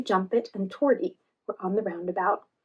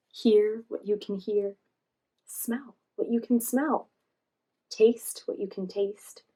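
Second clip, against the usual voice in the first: slow, calm mindfulness guide. Acted. Joy leading slow mindfulness.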